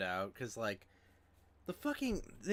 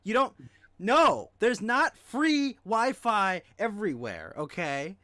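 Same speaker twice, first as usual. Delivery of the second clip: raised, high, heated voice; fed-up loud protest; exasperated rant; 12 semitones higher, 12 dB louder than usual. Real, not acted. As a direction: push back hard, loud and high. Ranting about Wi-Fi myth.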